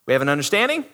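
parent bossing school staff; demanding parent. Retold or imitated. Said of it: "Some parent ... and they go".

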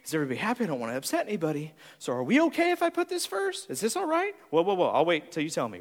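hesitant, eager-to-please mock voice; timid people-pleaser. Preacher imitating the greens, softly asking permission. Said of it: "they're going".

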